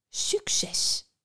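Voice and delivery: breathy sneering whisper; a poisonous good-luck; mocking whisper. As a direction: Venus sending Psyche off, whispered scorn. Venus mock farewell.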